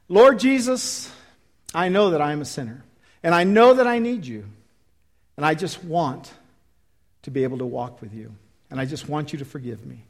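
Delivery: leading a sinner's prayer. Acted. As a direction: pray it line by line, sincerely. Leads altar prayer.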